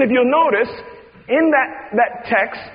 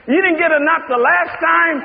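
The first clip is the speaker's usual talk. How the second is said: playful God; 8 semitones higher than usual. Acted. God teasing the creatures.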